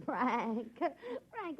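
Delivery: giggling through his name; laughing protest. Acted. Wife laughing as Frank hugs her, giggly protest. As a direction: laugh while pushing him off playfully.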